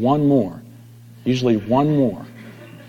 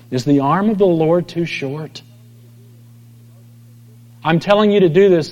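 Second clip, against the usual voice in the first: God rebuking; 4 semitones higher than usual. Retold or imitated. God voiced rebuking Moses.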